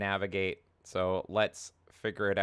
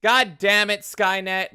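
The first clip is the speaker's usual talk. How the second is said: loud mock-furious yell; angry shout; 10 semitones higher, 10 dB louder, slower than usual. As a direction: bellow it at the robot overlords. Yelling at the donation robot.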